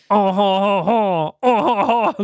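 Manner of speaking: mock French chortle; stereotype French accent. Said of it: "with the French guy".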